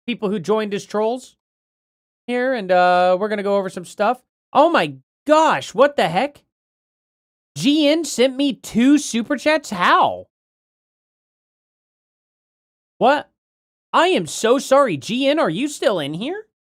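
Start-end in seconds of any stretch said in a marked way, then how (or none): 4.5-16.5 high, startled disbelief; shocked. Real, not acted. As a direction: gasp out the shock at missed messages. Missed super chats, shocked.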